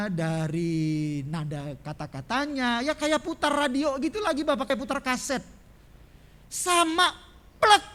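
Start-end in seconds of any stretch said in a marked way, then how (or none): 2.8-7.8 fiery preaching. Acted. Preacher thunders to the congregation about the repeated sermon, loud and high. Preacher keeps full force.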